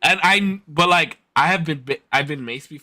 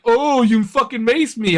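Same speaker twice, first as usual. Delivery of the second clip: high, slow disbelieving cry; stunned after being maced; shocked outrage; 10 semitones higher, 5 dB louder, slower than usual. Retold or imitated. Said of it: "and I was like".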